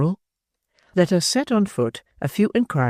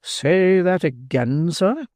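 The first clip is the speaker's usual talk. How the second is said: slow, heavy demand; menacing Bumble; 4 semitones higher, much slower than usual. Acted. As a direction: drag each word out to threaten.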